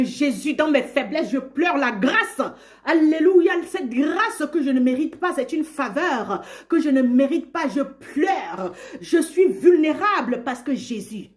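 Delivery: laughing praise. Real, not acted. Joyful preaching with laughter.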